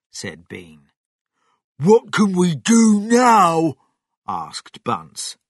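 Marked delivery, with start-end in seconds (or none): 1.8-3.8 high, loud, helpless demand; frustrated farmer calling out; exasperated question. Acted. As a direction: ask loudly at a loss. Bunce exasperated after failure.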